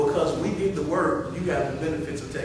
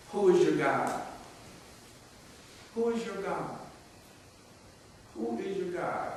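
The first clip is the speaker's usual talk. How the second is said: fading question; 3 semitones higher, 8 dB quieter than usual. Acted. Repeated question, fading softer.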